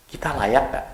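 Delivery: doubtful inner voice. Retold or imitated. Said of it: "pikiran kita".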